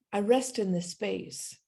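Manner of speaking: calm, unhurried prayer, resting on each phrase. Acted. Pastor leading the congregation into prayer, in a calm prayer voice.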